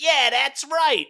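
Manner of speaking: loud, high, drawn-out agreement; cartoon sidekick. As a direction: chime in slowly in a high cartoon voice. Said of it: "Meowth is like".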